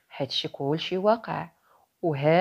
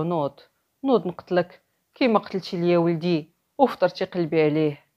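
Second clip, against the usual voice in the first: menacing threat; 4 dB louder than usual. Acted. Demon threatens to kill merchant.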